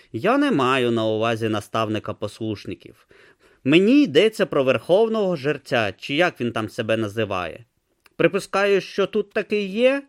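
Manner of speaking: tortoise lightly mimicking a dull monotone; a mild mock of the boy's droning voice; mocking Brutha's monotone. Tortoise mimics Brutha's dull voice, mildly mocking. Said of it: "наслідувати монотонний голос Брути".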